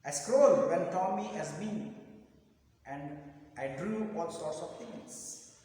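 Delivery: measured recitation with long pauses; slow poem reading. Shown as a demonstration. Teacher reads the pencil poem to students, slow recitation. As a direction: read verse phrase by phrase, slowly. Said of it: "I'll read the poem slowly".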